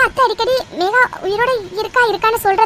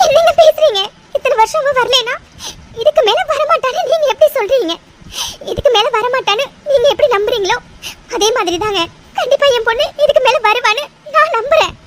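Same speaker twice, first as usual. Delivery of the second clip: tearful, stubborn protest; crying. Acted. Mother defending her hope to her husband, crying. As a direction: argue back through tears. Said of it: "அழாதீங்க".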